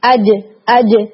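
اج، اج said slowly, tongue hitting the palate and springing back; strong jeem bounce. Shown as a demonstration. Teacher demonstrating a qalqalah jeem: اج with a strong hit. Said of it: "یوں کر کے".

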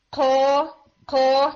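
"کھو" made too far forward, aspirated k; wrong qaf. Shown as a demonstration. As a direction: puff out "کھو" from the palate instead of the throat. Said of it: "go a little bit more back". ("کھو" حلق سے آگے، ہوا کے ساتھ)

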